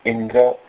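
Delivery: इंद्र with weight on इ; stress on इ. Shown as a demonstration. Teacher demonstrating stress in इंद्र. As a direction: lean on the इ of इंद्र. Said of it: "यहाँ ई पे जोर आ जाता है".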